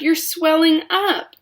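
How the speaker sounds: high, loud, slow scream. A narrator's reading. Mother screams as Violet swells, high and loud. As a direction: cry it out in horror. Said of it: "screamed Missus Beauregard".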